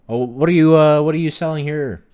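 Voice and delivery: high and loud eager asking; excited question. Acted. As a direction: lean in, curious at the stall. Player in character, excited.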